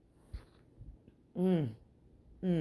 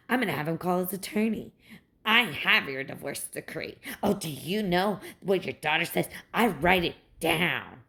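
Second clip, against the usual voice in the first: lower, smug mock of her threats; mocking the mother-in-law; 3 semitones lower than usual. Ranting mom imitating her ex's mother, smugly, lower. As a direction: play her as smug and superior, pitched down.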